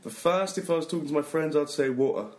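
quick British water with a glottal stop in place of the t; fast British water. Shown as a demonstration. British teacher gives the fast version the host asked for, glottal t. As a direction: clip the t right off, the way you'd say it to friends. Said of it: "hit us with the fast version".

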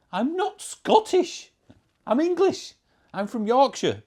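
very high, loud indignant cry; exasperated protest. Real, not acted. Yorkshireman correcting American viewers who think him Scottish, exasperated shout.

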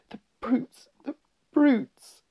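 put-on high-pitched girl's outcry; distressed little girl in falsetto; tearful. A narrator's reading. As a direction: cry it out twice, rising in force. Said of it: "tears streaming down her cheeks".

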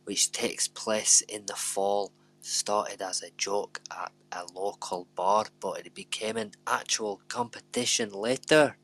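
put-on light Scottish accent. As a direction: try a Scottish lilt, half-hearted. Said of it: "I'm gonna do it in a Scottish accent now".

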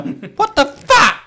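high, loud disbelief; shocked. Pretend. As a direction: react in shock. Imitating a reaction.

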